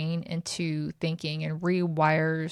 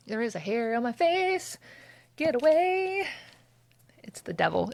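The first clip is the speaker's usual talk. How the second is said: mock panic; 5 semitones higher than usual.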